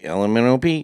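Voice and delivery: a hint of drunk kid's alphabet; sounding drunk. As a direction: run the letters together, mock tipsy. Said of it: "I say that I sound drunk".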